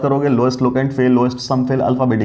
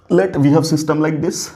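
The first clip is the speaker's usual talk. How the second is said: very slow, drawn-out dictation; 4 semitones higher, much slower than usual. Shown as a demonstration. Teacher dictating the next problem very slowly. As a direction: spell the question out for note-taking. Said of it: "खटाखट सवाल लिखो".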